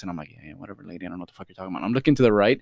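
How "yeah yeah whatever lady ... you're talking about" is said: soft, half-listening brush-off; dismissive. Retold or imitated. Customer tuning out the clerk to eavesdrop, dismissive. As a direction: murmur it, barely paying attention.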